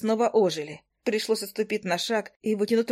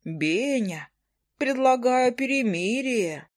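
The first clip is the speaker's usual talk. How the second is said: mocking the hunter; 3 semitones higher, much slower than usual. Heroine mocking hunter's offer in put-on voice. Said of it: "передразнила я охотника, максимально понизив голос".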